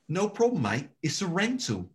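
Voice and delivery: breezy Australian stranger shrugging it off; mock Aussie bloke. Aussie driver tells her not to worry, breezy Australian accent. Stranger's reply after car crash.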